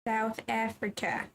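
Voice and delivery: slow try at a South African accent; drawn-out mock South African; attempted South African accent. Shown as a demonstration. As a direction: have an unsure go at South African. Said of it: "I don't know how you do South African".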